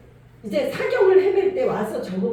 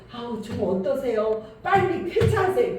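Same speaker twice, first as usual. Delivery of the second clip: polite sickbed small talk. Retold or imitated. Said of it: "그게 아니라요".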